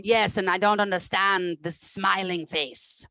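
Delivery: slow, severe German doctor; a lightly stern German accent, drawn out; German therapist accent. Acted. German therapist scolding her patient's smile, severe light accent. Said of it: "She's got some anger to her".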